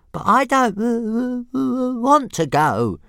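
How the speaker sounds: very high, loud creature voice; stammering little dragon. A narrator's reading. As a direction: stutter a high-pitched protest. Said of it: "Toothless pointed out".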